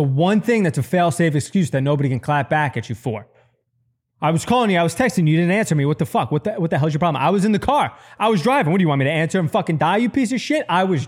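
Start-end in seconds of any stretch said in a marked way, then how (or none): 4.2-7.2 higher, nagging complaint; mock exasperated spouse; mock angry wife. 7.2-11.1 much higher, ranting indignation; pitched-up outraged retort; indignant defense. Retold or imitated.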